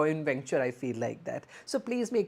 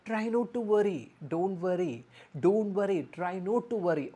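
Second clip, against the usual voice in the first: reassuring; 3 semitones higher than usual. Shown as a demonstration. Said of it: "you can say like that".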